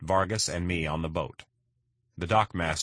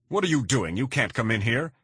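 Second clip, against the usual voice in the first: alarmed protest; 6 semitones higher, 3 dB louder than usual. Acted. Vargas protests as door pushed.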